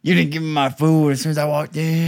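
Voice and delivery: hammed-up whiny customer complaint; mock complainer. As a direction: act out the fussy customer you refuse to be. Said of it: "I'm not gonna fucking be like".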